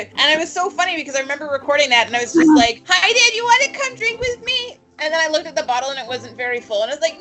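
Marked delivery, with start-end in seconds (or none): 2.9-4.8 high, tipsy sing-song call to dad; drunk character. Acted. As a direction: drunkenly invite dad for a drink. Player acting her drunk character.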